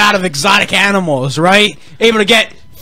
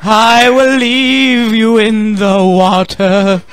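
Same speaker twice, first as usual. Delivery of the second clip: slow Titanic quote; 2 semitones higher, much slower than usual. Retold or imitated.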